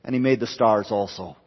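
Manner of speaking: mildly offhand, like an afterthought; throwaway. Acted. Preacher quoting Genesis's last phrase on the stars, mildly throwaway. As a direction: read it lightly, as no big deal. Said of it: "little almost throwaway phrase".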